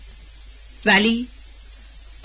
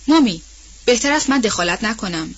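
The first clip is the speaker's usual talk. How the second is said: Melly answering; 2 semitones higher than usual. Acted. Young lady refusing the nanny's plea, a startled call then gentle. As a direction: begin with a sharp call, then soften.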